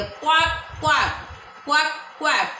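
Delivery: repeated mock quacks; क्वाक क्वाक repeated in a light duck voice; duck quack imitation. Shown as a demonstration. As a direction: quack twice for the class. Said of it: "क्वाकिंग करती है".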